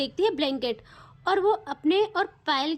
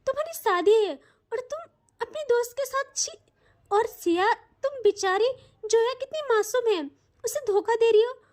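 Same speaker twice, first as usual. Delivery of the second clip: higher, stammering, scandalised mother; shocked scolding mother; 5 semitones higher than usual. Acted. Mother catching her daughter with a friend, shocked scolding. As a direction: splutter in disgust as the horrified mother.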